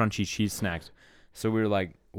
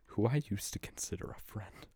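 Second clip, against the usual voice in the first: whispered aside; 6 dB quieter than usual. Acted. Mock betrayal aside.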